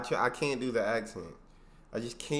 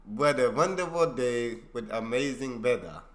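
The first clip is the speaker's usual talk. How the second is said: slow, failed German accent; badly attempted German accent, drawn out; terrible German accent attempt; 3 dB louder than usual. Shown as a demonstration. Viewer copying the teacher's line, slow poor German accent. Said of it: "it's terrible".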